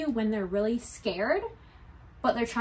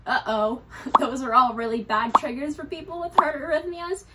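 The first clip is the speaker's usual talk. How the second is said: laughing; 3 semitones higher, 5 dB louder than usual. Retold or imitated. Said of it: "I know what you're thinking".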